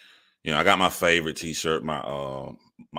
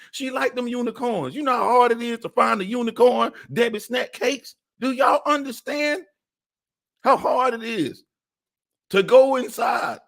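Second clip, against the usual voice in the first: exasperated high rant. Real, not acted. Ranting about snacks eaten.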